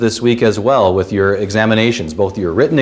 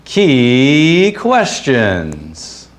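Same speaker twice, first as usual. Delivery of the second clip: long drawn-out, higher cheesy announcer call; game-show announcer; 4 semitones higher, much slower than usual. Acted. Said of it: "sounded a little bit more like this".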